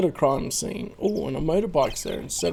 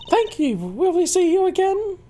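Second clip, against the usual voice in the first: put-on much higher, stammering flustered girl voice; a girl tripping over her words; 13 semitones higher than usual. Girl answering the charmer, high and flustered.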